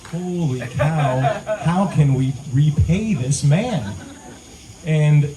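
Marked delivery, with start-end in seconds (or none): 0.1-3.9 amazed gratitude. Retold or imitated. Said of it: "we were like".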